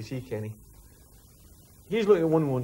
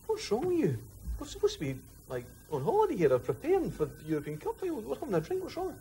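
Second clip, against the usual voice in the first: mock Tom; 10 semitones higher, 5 dB quieter than usual. Tom quizzes Nico in bar.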